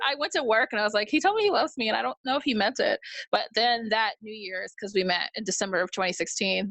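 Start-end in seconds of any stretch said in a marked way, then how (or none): 1.1-3.0 excited rush. Retold or imitated. Rushing to tell at work.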